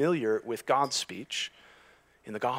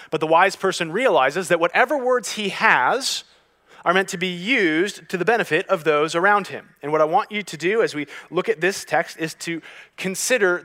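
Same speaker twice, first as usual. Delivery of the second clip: louder, raised-pitch sermon delivery; emphatic preaching; 7 semitones higher, 10 dB louder than usual. Real, not acted. Preacher urging the congregation to weigh their words, emphatic. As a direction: press the point on the listeners.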